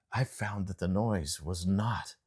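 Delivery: usual speaking voice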